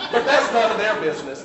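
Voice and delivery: sassy aside. Shown as a demonstration. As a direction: brush it off with sass. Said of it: "we like a little bit of gossip".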